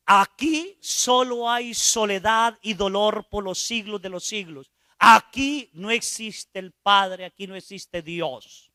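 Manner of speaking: the Spirit showing the sinner hell; solemn warning. Retold or imitated. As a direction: proclaim hell's emptiness then let it sink.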